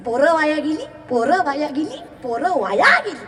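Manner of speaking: mock old folks' repeated complaint; imitated grumbling elders. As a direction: repeat it like a tutting elder, lightly mimicked. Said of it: "म्हातारी माणसं निस्ती म्हणतात".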